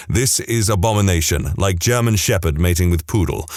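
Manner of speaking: lightly imitated Korean accent; a hint of a Korean accent, low. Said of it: "in his thick Korean accent".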